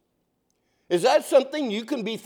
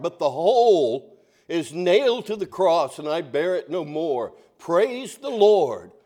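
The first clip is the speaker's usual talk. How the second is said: recited hymn; 3 semitones lower than usual. Retold or imitated. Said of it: "Horatio Spafford put it this way".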